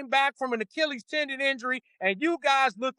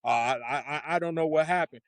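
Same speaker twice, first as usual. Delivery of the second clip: mocking clueless coach; 10 semitones lower than usual. Mocking the coach's press answer.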